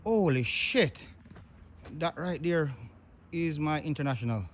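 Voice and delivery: real shock. Real, not acted. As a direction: gasp it out in disbelief. Sees his own truck wrecked.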